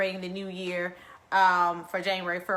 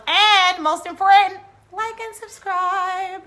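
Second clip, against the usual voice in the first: loud and higher, stretching out like and subscribe; big call to subscribe; 10 semitones higher, 11 dB louder, slower than usual. Real, not acted. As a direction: hype it up like an announcer pitch. Urging viewers to subscribe.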